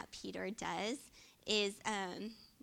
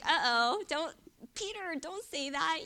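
louder and higher, urgent warning; mock alarmed warning; 6 semitones higher, 9 dB louder than usual. Preacher warning Peter not to speak, urgent and loud. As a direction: stop him before he speaks.

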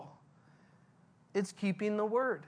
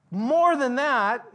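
higher and louder, slow and weighty; rising emphatic repeat; 4 semitones higher, 6 dB louder, slower than usual. Acted. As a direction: build it up, hit MORE hard. Preacher voicing Jesus' reply, building.

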